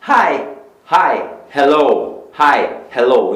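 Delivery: "hi" and "hello" opening on an aspirated H; breathy English H. Shown as a demonstration. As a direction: say the H in "hi" and "hello" like a Brazilian initial R. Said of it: "tem o nosso som meio que de R".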